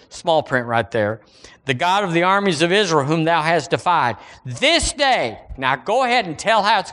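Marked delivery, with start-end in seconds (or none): 1.6-5.4 raised-pitch pulpit reading; scripture reading. Acted. Preacher reading David and Goliath to church, declaimed scripture. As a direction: read the verse out to the congregation.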